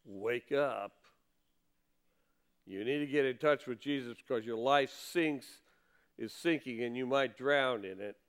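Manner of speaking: preacher pleading with someone in the pews, soft and earnest; earnest plea. Real, not acted. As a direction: speak straight to one listener, gently urgent. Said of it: "To say to somebody here".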